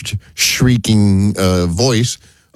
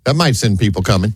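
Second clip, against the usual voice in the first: usual speaking voice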